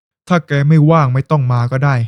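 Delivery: slow, dry sarcastic jab at his daughter; a sick father teasing his daughter with light sarcasm. Acted. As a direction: needle her with mock indifference, slowly. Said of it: "น้ำเสียงประชด".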